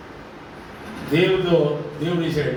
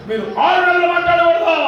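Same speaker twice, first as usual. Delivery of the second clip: higher, louder voice for the doctor's warning; retold doctor's stern verdict, pitched up; doctor's orders; 10 semitones higher, 4 dB louder than usual. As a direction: play the doctor laying down the rule. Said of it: "ఒక doctor అన్నాడు".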